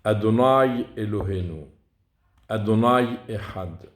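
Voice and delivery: measured demonstration, "Adonai" stretched on its last vowel; careful kamat pronunciation. Shown as a demonstration. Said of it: "faut faire attention à, à cette nuance".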